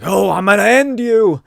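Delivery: high, loud charging-brute roar; hammed-up battle cry; villain threat. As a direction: threaten him as you charge.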